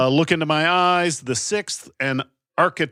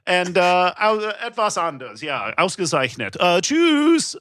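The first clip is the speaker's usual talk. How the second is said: German speech. Acted. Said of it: "Stuart Wellington, of course, is gonna say".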